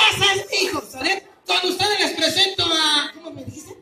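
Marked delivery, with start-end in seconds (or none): 0.1-0.8 a higher mock cheer of a proud parent; loud shout. Shown as a demonstration. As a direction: shout it out for the crowd to copy. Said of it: "usted grita bien fuerte".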